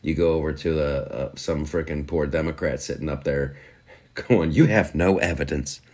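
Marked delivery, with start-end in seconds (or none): 4.5-5.8 laughing mock quote.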